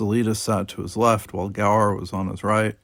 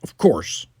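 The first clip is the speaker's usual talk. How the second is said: stiff; 6 semitones higher, 4 dB louder, much slower than usual. Acted. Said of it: "he said stiffly".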